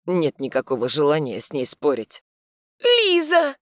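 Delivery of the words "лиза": high, loud startled call; sudden cry. A narrator's reading. Heroine cries out on spotting the girl. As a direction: cry out on seeing her. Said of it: "вдруг вскрикивает она".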